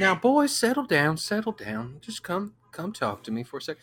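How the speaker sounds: high, lightly voiced youth pastor. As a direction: coax the kids like a cool pastor. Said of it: "being a youth pastor".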